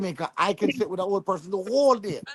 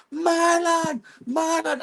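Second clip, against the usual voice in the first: excited high calling of a name; crowd calling out; 11 semitones higher, much slower than usual. Retold or imitated. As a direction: call his name like an eager fan.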